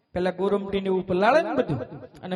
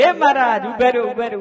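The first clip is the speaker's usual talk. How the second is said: calling out; 5 dB louder, faster than usual. Retold or imitated. Devotee calls after Maharaj to wait, loud call. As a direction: shout for him to stop. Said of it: "Bhaga ભગતે બૂમ પાડી".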